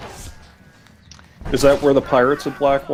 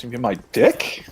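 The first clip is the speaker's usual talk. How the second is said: whisper; 2 semitones lower than usual. Real, not acted. Whispered aside.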